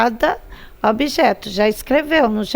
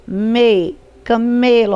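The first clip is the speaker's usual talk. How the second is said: "me" alone, then leaned on inside "camelo"; stress on ME; slower than usual. Shown as a demonstration. Teacher showing pupils the tonic syllable, firm stress on "me". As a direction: lengthen "me" as the strong syllable of "camelo". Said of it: "tônica é o me".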